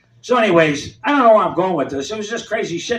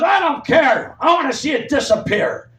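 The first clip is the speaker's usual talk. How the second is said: lunch lady shouting; 6 semitones higher than usual. Retold or imitated. Lunch lady yelling at the kids over dirty dishes, mock shout. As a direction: bark it like the bossy lunch lady. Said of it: "She goes".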